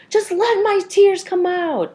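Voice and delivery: high, loud, drawn-out exclamation; hammed-up cry of letting it all out; mock wailing release. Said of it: "I wasn't like".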